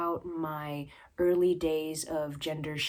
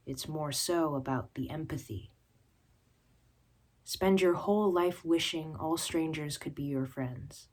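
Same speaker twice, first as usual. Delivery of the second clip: measured recital in parallel phrases; poetry reading. Acted. Poet advising someone to beat name-callers to it, measured recital. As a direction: recite with pauses, dropping to a hushed last word. Reads own poem.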